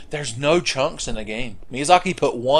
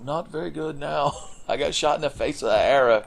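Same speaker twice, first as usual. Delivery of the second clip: tag; 3 semitones higher, 4 dB quieter than usual. Pretend. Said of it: "He's like".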